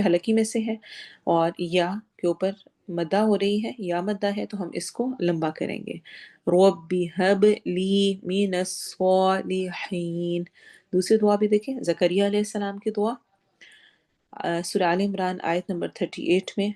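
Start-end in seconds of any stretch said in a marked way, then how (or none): 6.5-10.4 measured, slow Quranic recitation; slow, careful Quran recitation of the verse; tajweed recitation. Shown as a demonstration. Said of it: "تجوید بھی اس کی دیکھ لیں".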